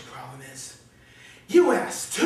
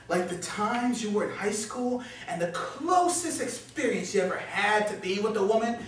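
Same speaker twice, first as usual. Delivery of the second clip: needling; 4 semitones lower, 4 dB quieter than usual. Acted. Inner voice needles self.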